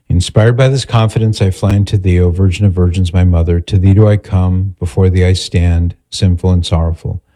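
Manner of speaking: measured, even prayer recitation; recited prayer. Real, not acted. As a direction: say a memorised prayer evenly and reverently.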